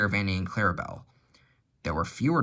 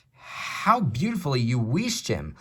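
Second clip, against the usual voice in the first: laughing; 3 semitones higher, slower than usual. Acted. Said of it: "laughed Edward".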